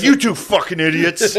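amused imitation of an angry rebuke; retold angry scolding. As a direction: imitate an angry dad turning on the laughers. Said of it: "while angry".

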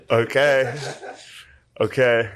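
lightly voiced grumpy old man; sit through it like an unimpressed old man; a hint of an old man, halting. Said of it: "like an old man".

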